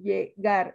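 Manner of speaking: "llegar" slowly split as lle, GAR; slow "llegar" down to show GAR; stress on last syllable. Shown as a demonstration. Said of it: "Entonces aquí es gar".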